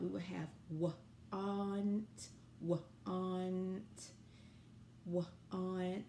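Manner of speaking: want stretched sound by sound, slowly; sounding out words. Shown as a demonstration. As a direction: sound out want, one sound at a time. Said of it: "if we tried to sound out the word want".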